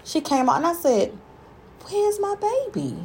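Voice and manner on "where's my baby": high, slow worried call; anxious. Retold or imitated. Mother anxious after silent birth.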